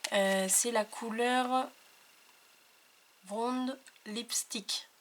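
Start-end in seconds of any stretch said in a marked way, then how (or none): 3.2-4.9 slow, breathy, half-whispered English colour name; English name said carefully. Real, not acted. Presenting her ink colour, she says the English name slowly, half-whispered. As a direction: spell out the English words softly, unsure of the accent. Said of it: "Désolée pour mon accent".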